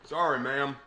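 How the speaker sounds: polite Southern apology; "Sorry" in a drawn Southern twang; Southern accent. Acted. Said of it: "putting on a Southern accent".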